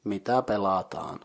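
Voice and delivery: "mitä pelataan" with weight on mitä, falling at the end; Finnish question demo. Shown as a demonstration. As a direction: model "mitä pelataan" clearly, long aa in the last syllable. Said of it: "you get the question".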